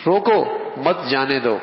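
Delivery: روکو stressed, short break, then مت جانے دو; pause after روکو. Shown as a demonstration. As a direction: keep مت with جانے دو. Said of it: "کتنا فرق ہو جائے گا".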